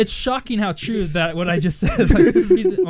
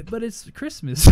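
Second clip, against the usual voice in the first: higher-pitched mock-hurt whine; pleading; 5 semitones higher, 4 dB louder, slower than usual. Retelling a plea to his stingy parents, lightly whining. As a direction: plead it with a laugh underneath.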